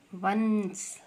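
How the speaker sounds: वंस with the n held long; वंस, lingering on the half न; sounded-out nasal. Shown as a demonstration. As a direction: stretch the n sound inside वंस. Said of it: "व आधा न श".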